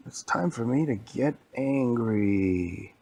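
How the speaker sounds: slow, drawn-out announcement of anger; slow storybook menace; mock menacing. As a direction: stretch it out like a playful threat. Baldi announces his anger.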